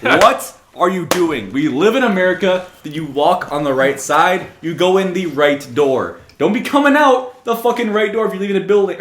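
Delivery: exasperated rant, slowed for emphasis; mini rant. Acted. Ranting at people on the wrong side of the sidewalk, exasperated.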